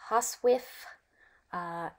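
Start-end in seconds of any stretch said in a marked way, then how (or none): 0.1-0.6 "hoswif" said HOSS-wiff, pitched up; dialect pronunciation. Shown as a demonstration. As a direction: say "hoswif" with short o and short i. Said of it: "how the word was pronounced".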